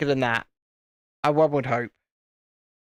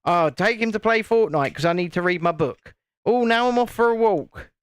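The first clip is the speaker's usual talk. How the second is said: imitating wife; 4 semitones higher than usual. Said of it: "sounding more and more like my wife".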